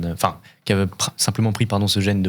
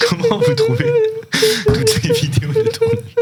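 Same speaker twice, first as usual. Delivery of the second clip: very high squeaky mocking voice. Host mimics squeaky voice.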